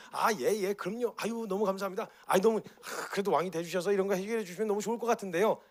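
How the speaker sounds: butter him up, grinning; fawning crowd. Acted. Crowd flattering Jesus to get favours, fawning.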